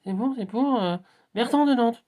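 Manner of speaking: high, drawn-out announcer with hesitations; acted-out challenge announcement. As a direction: build up to revealing the name, high and loud. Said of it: "Et là, il dit".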